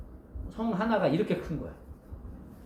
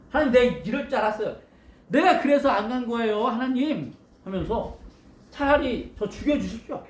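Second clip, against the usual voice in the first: huffy protest, mildly hammed-up; indignant prophet demanding to be killed, mock angry; mock angry complaint. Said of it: "화가 나가지고 막 그렇게 이야기를".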